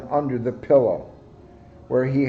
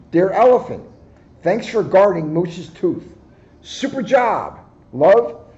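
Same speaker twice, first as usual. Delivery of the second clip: higher, louder cheery fairy; tooth fairy voice; 4 semitones higher, 4 dB louder than usual. Acted. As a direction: read the note like a sparkling fairy. Tooth Fairy's note read aloud.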